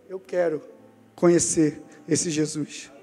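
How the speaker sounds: low, slow, hushed emotion; retold tearful plea. Tough northerner in tears asking to know Jesus, tearful. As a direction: imitate a tough man humbled to tears, slowly. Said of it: "Ele em lágrimas".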